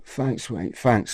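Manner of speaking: soft, humble mock thanks; imitated gratitude. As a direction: quietly thank a friend, imitating him. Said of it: "he just appreciated what I did".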